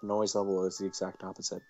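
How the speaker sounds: calm game-text reading; story narration. Acted. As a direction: read the scene evenly. Reads visual novel narration.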